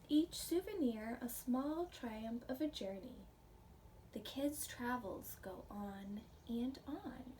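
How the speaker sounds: gentle storybook read-aloud for a class; reading to children. Acted. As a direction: read it like a picture book to little ones. Reading picture book to class.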